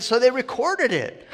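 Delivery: mock-solemn retelling; quoting the Florida preacher with mock gravity; mock dead serious. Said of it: "But he was dead serious".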